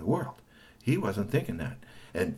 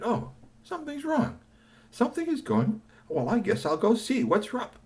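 lightly voiced robot wondering; curious robot; 12 semitones higher than usual. Robot seeing trouble, high curious musing.

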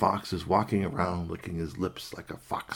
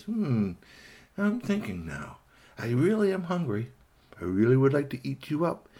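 pondering fox; 4 semitones higher than usual. Acted. Fox deciding on rabbit's fate, sly musing. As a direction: size up the prey, teasing.

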